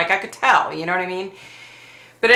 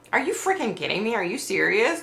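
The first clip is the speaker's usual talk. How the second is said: fast, pitched-up disbelief, a bit softer; incredulous disbelief; 4 semitones higher, 4 dB quieter than usual. Retold or imitated. Patient to her surgeon, in quick incredulous disbelief. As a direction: rattle it off like you can't believe him.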